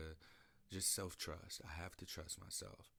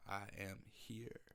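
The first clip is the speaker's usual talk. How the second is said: slow spoken mantra. Real, not acted. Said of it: "This is my mantra".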